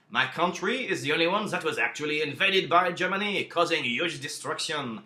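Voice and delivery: hammed-up French accent as Clemenceau, rising loud on Germany should pay; mock French accent, insistent; clumsy French-accented demand; bad French accent. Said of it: "Sorry about that awful accent".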